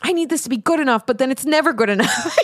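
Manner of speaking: high, hurried mock fretting; voice of perfectionism. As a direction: play the needy perfectionist, breaking into a laugh. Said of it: "your perfectionism is gonna be like".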